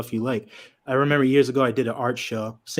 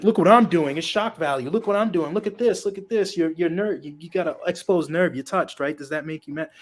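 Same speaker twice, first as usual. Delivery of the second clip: lightly voiced needling show-off, higher pitch; mock provocateur; 6 semitones higher than usual. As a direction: goad them, higher than usual, as a mocking imitation.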